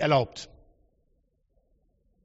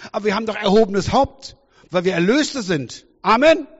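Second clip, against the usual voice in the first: builds from indignant questions to a loud, higher call; rising preaching fervor; 4 semitones higher, 4 dB louder than usual. Real, not acted. Preacher rallying the church against a weak faith, building to a loud call. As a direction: rouse the congregation louder and louder.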